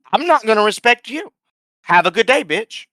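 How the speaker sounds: high, loud, indignant lecture; heated scolding. Retold or imitated. Cashier telling off the customer before slamming the window, heated. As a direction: lay down the law.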